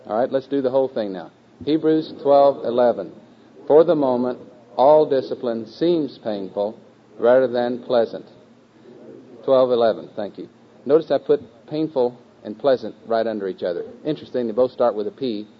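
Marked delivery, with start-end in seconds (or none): 1.6-10.1 slow, measured choral recitation; group recitation lead. Acted. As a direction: lead the class word by word, each phrase set apart.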